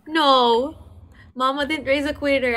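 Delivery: mock-defiant, refusing to quit; defiant refusal. Real, not acted. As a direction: insist you are no quitter. Refusing to give up in game.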